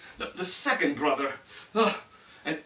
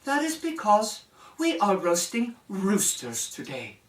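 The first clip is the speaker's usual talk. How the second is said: cold princess voice; 4 semitones higher than usual. Acted. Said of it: "with her cold, hard look".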